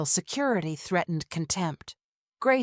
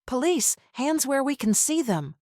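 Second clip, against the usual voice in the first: high, commanding police shout; 7 semitones higher than usual. Acted. Officers bursting in on the couple, shouting commands. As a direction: bark the order at the suspects.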